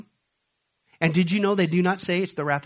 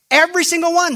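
fiery emphasis; 10 semitones higher, 6 dB louder than usual. Real, not acted. Preacher building to a climax.

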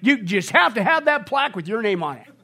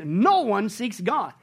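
very slow, stress on No; emphatic slow quote; much slower than usual. Real, not acted. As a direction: spell it out word by word. Quoting Romans emphatically.

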